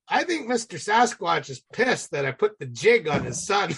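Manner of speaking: chuckling through the line; laughing. Real, not acted. To the host, laughing at the Sasquatch joke. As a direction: laugh as you tell the punchline.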